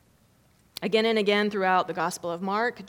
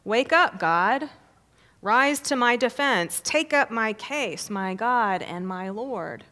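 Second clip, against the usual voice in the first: psalmist's plea; 2 semitones higher, 5 dB louder than usual. Acted. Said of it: "The psalmist says".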